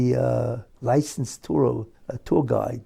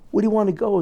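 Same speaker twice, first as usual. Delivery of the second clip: mock shout; 7 semitones higher, 4 dB louder, much faster than usual. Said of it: "screams out and says in broken English".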